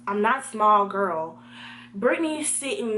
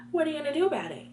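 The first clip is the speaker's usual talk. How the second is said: raised-pitch imitation of a taunt; challenging classmate; 6 semitones higher, much faster than usual. Classmate standing over seated student, lightly mimicked high taunt. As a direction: lightly mimic her dare, higher. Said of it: "and she goes".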